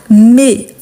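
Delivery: "mes" with an open e; teacher's demonstration of open "mes"; open vowel. Shown as a demonstration. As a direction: hold "mes" on an open "meh". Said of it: "les sons ouverts".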